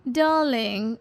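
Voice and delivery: high, affected wifely complaint; fussy new wife. Acted. New wife complaining to husband about oily breakfast, high and fussy. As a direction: whine at your darling in a high voice.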